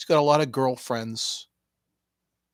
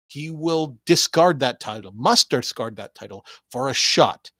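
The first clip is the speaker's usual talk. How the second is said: wrestling promo hype; 2 semitones higher, 3 dB louder than usual. Acted.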